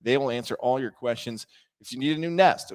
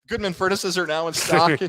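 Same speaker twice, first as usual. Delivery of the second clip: ad read correction; 3 semitones higher than usual. Acted. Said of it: "I usually do that at trivia".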